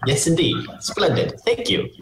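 rising delighted thanks; pleased character voice. Acted.

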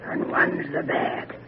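soft ominous hush. Acted. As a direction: breathe the bad news. Ominous palm reading.

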